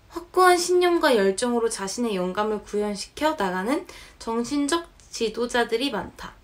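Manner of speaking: 교정기 때문에 새는 발음; 교정기 낀 채 또박또박 읽기; with braces. Real, not acted. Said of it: "교정기 때문에 발음이 좀 새는 건". (교정기 낀 발음)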